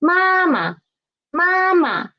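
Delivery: teacher's model 妈妈, second 妈 falling away lightly. Shown as a demonstration. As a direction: hold first 妈 high, drop the second. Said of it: "so it is lower".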